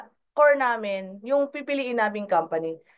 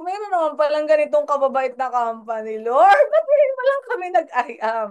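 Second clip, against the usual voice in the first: retold crying. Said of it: "naiyak talaga ako".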